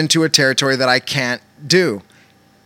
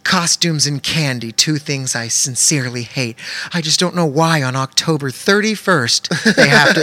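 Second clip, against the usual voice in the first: mock grumpy lady. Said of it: "she goes out on Halloween".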